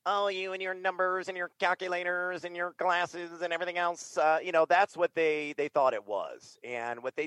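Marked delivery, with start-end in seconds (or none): 0.1-4.2 higher-pitched scoffing at nerds; mildly mocking naysayer, pitched up; mock dismissive. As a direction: brush off the number crunchers. Mimics programmers scoffing at nerds.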